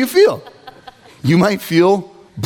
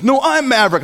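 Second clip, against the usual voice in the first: put-on high-pitched childish contradiction; squabbling kid; 7 semitones higher than usual. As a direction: play a little brother insisting. Retold brothers squabbling.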